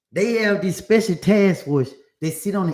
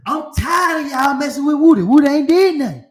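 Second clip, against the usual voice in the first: higher, louder mock dog voice; voiced dog; 9 semitones higher, 7 dB louder than usual. Dog telling off the police in a high, loud mock voice. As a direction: play the dog sticking up for his owner. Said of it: "He said".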